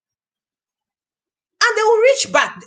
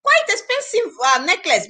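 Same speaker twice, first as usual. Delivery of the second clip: proud offer; 3 semitones higher than usual. Pretend. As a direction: show off the gift with pride. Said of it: "You will be proud and hold it and say".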